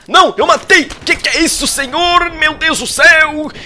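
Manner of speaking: very high, loud disbelieving cries; ecstatic shriek. Real, not acted. Streamer shrieking in disbelief at his own kill. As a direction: squeal with joy at the kill.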